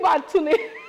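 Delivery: lightly acted wifely call; a touch of coy fondness; affectionate call. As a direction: call your husband with playful affection. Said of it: "उनको प्यार से मैं कहती हूँ".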